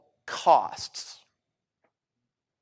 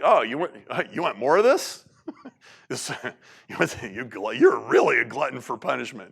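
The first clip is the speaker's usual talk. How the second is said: laughing mock; 2 semitones lower than usual. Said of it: "He's like".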